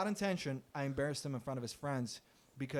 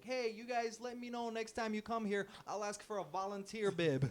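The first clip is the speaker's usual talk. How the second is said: higher, mock-friendly sarcastic call; sarcastic farewell; 5 semitones higher than usual. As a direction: wave him off sarcastically. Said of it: "be like".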